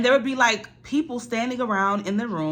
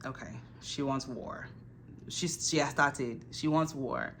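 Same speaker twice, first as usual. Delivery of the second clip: much softer, slow declaration of war; softer voice, deciding to retaliate; quiet ominous resolve; 2 semitones lower, 7 dB quieter, slower than usual. Retold or imitated. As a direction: mutter it like a threat to herself. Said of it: "I was just like".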